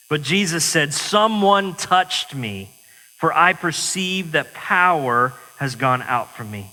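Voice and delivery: measured, earnest Bible reading to the congregation; scripture reading. Acted. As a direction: read the Gospel like a preacher at the pulpit. Reads the Gospel passage aloud.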